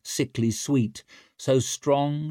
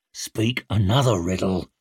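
snarled; 3 semitones lower than usual. Acted. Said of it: "snarled Shivers".

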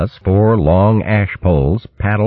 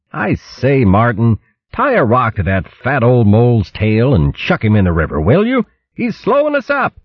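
lofty, teasing upper-crust tone; mock-posh command; haughty; 7 semitones higher than usual. A narrator's reading. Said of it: "Gonf called back haughtily".

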